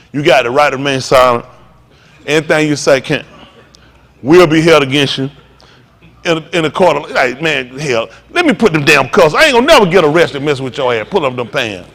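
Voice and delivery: a hint of a gruff cop; mock police officer. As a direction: play the arresting officer with mild scorn. Mock police arrest of sagging youth.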